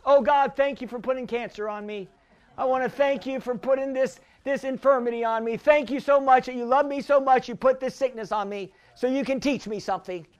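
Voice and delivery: low, soft, meek thanks; mock pious prayer. Believer thanking God for sickness, mock-meek prayer. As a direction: pray meekly, hushed and low, as a parody.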